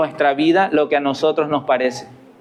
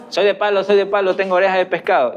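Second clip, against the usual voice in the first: put-on lightly sing-song kid's taunt; mock children's taunt; 3 semitones higher, faster than usual. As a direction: tease like a stubborn little kid. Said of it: "Se tapan los oídos y ¿qué dicen?".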